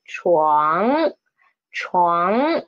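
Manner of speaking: chuang starting low and sweeping up; second tone. Shown as a demonstration. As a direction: raise the pitch through chuang, ending in ng. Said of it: "the tone is second tone".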